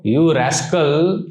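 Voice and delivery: slow, drawn-out playful scolding; mock scolding rascal. Guru teasing his disciple, slow playful scold. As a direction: stretch it out, teasing. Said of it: "would speak strong language sometimes".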